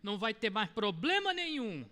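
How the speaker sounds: high, syrupy coddling voice, stretched out; hammed-up sickly sweet pity; mock sugary baby talk. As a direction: coo at them like a doting parent to a small child. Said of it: "falar com amor hoje é você chegar".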